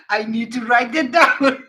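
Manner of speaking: words spilling out through a giggle; laughing. Real, not acted. Viewer delighted by a gray pigeon rapper, giggling. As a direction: say it while you can't stop laughing.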